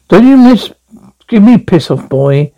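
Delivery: angry threat. Acted. Threatening a heckler.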